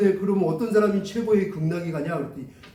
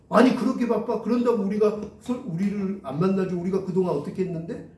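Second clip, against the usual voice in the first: indignant mock complaint, raised at first; angry older sister; 2 semitones higher than usual. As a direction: act out a miffed, slighted customer. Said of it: "화를 내면서".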